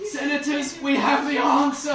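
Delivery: high, jubilant shout; exhilarated. Acted. Helms runs back to the senators with the answer, exhilarated. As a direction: announce it loudly in triumph. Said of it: "He was exhilarated".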